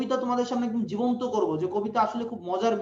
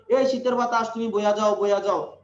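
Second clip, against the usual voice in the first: commanding call; 5 dB louder than usual. Acted. Poet ordering the wind in story.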